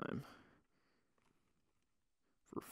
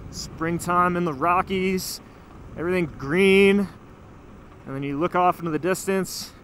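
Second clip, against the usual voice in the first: louder, awed and delighted; 3 semitones higher, 4 dB louder than usual. Real, not acted. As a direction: marvel at the view. Awed by mountain view.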